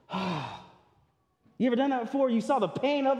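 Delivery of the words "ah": imitated sigh. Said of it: "he goes".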